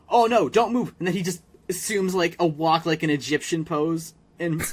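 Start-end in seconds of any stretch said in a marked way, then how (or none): 0.1-0.9 mock Sheen. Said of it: "he like".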